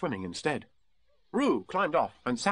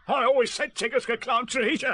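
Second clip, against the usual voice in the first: high, loud and cheerful; jolly, pleased character voice; happy Tigger; 12 semitones higher, 5 dB louder than usual. Acted. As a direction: call it out happily to yourself. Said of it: "Tigger said happily to himself".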